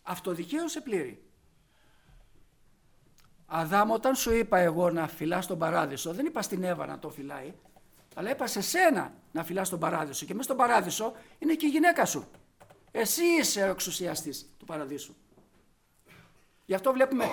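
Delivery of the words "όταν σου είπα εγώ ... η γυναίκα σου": normal talking voice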